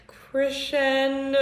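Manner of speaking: slow, drawn-out Crescendo; slow demo. Shown as a demonstration. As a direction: Crescendo said slowly as an example. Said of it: "that is called crescendo".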